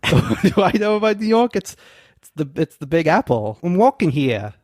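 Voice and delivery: lightly hammed New York accent. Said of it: "You did it perfectly".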